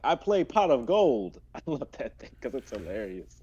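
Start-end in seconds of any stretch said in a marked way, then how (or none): 0.0-1.4 meme card play. Retold or imitated. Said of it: "a video where he's like".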